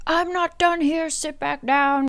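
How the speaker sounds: high, stern mock command; retold Tamlin ordering her to sit. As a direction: bark the order back at her. Tamlin orders Feyre back.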